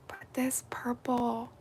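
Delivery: soft awed whisper. Real, not acted. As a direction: whisper it reverently. Whispered admiration.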